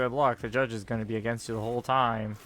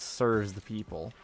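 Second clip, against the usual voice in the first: sarcastic air quotes; slower than usual. Retold or imitated. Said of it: "even though, quote".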